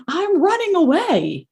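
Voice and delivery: high-pitched retold cry of escape; reenacted frantic declaration; overwhelmed outburst. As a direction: throw it out like a mock-dramatic meltdown. Retold dramatic threat to flee.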